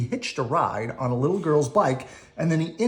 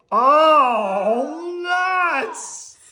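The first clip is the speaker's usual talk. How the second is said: high, drawn-out delighted cry; happy squeal; 11 semitones higher, 5 dB louder than usual. Acted. Squirrel seeing the pile of nuts, high happy cry. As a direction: squeal with joy.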